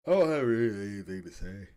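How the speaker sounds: talking through a yawn; words stretched by a yawn. Real, not acted. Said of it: "Sorry for the yawning".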